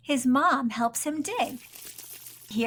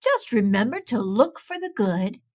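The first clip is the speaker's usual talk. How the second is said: low, calm wise owl voice; wise old owl; 3 semitones lower than usual. Acted. Wise Old Owl gently advises Pete from the tree. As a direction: gently hand down wisdom.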